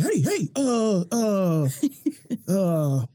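halting gym coach; hesitant coach voice. Retold or imitated. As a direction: stall like a coach finding words. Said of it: "coaches say stuff before they even know".

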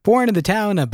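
booming announcer read; trailer-style TV announcer. Acted. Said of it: "kinda like the T V announcer voice".

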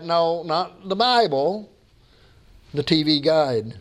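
measured, rhyming verse with pauses before the punch lines; poem recital. Real, not acted. Preacher shares a poem with congregation, measured recital. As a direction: recite it like a homespun pulpit poem.

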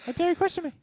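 high, offended character voice; haughty put-on voice. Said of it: "Those two voices you've heard".

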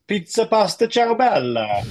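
put-on high, loud jokey Italian accent; hammed-up Italian accent; mock Italian. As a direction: rattle off Italian words like a cheesy Italian. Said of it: "So they'd be coming up to me".

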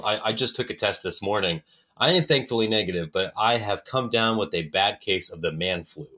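stuffy nose from a cold; congested. Real, not acted. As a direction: sound a little blocked up. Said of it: "if my voice sounds a little bit different or congested".

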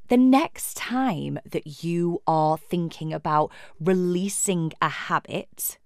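slow lead-in, leaning on "releasing"; stress on releasing. Real, not acted. Coach advising on habit language, emphasis on "releasing". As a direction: put the emphasis on the word "releasing". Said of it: "I'm emphasizing the word releasing".

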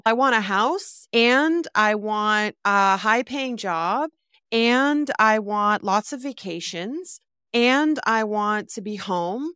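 each "and" stretched with a rising tune; piling up ands. Shown as a demonstration. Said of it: "You've added so many ands".

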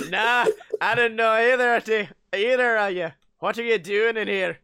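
lightly clipped Scottish engineer; Scottish accent. Acted. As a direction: question intruders in a Scottish accent. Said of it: "in his clipped Scottish accent".

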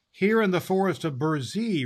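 firm and defiant reply; bold nymph. Acted. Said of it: "replied the nymph boldly".

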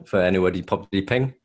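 Welsh; speaking Welsh. Shown as a demonstration. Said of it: "my name is Microwave".

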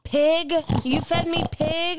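high, shocked disbelief; shocked outrage. Real, not acted. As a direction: gasp it out, betrayed. Outraged at being fed pork.

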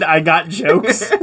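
slow, laughing replay of the line; laughing quote. Retold or imitated. Teasing Ben about his line, laughing slow replay. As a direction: savour the quote through a laugh. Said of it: "Yeah, Ben, that's the line".

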